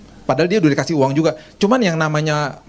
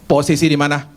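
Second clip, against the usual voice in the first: laughing quote. Retold or imitated. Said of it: "Kalau telepon gini".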